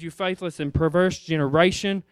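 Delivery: a hint of Jesus scolding, low; disappointed correction; preacher voicing Jesus rebuking disciples, mildly stern; stern rebuke. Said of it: "He said".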